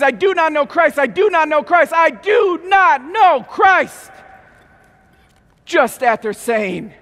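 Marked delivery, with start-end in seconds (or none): 0.0-4.1 rising from firm to loud slow shout; building denial to a shout. Acted. Peter denying Christ three times, building to a shout. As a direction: build the denial till it bursts out.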